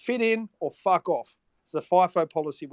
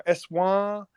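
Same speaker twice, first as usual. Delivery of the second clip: Eshay slang; 3 semitones higher, much slower than usual. Retold or imitated. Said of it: "we hear the Eshos go".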